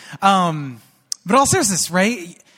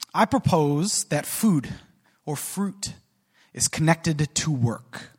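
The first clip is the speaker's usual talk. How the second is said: slow thesis; slower than usual. Acted. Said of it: "slow thesis statement".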